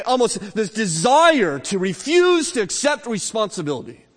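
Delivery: forceful preaching. Real, not acted. Preacher condemning those who blame God, forceful and insistent. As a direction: drive each example home to the congregation. Preacher drives home sin's excuses.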